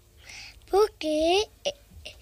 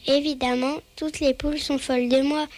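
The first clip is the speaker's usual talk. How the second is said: boastful; faster than usual. Acted. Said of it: "se vanta le coq".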